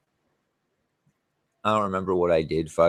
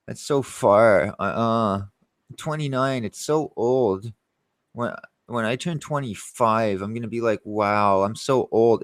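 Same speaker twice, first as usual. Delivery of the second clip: higher, slow mock-whiny girl voice; 4 semitones higher, slower than usual. Mimicking the girl who thinks an hour is far, mock whiny. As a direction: drag out her complaints in a mocking whine. Mocking the girl's complaints.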